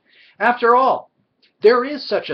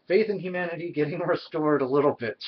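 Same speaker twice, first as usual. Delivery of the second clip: fast, laughing through the words; giggly and a bit hyper; wired; 4 dB quieter, faster than usual. Real, not acted. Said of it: "I'm just a little wired tonight".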